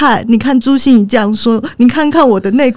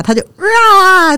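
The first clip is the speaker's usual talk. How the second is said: imitated baby cry; 11 semitones higher, much slower than usual. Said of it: "大哭".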